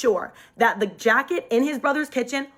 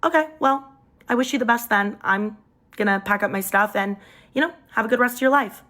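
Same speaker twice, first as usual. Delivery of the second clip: breezy indifference. Retold or imitated. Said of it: "acted like I didn't care".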